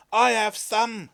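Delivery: loud and high call from a window; neighbour's yell. A narrator's reading. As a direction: call it out across the lane. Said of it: "yelled the neighbour".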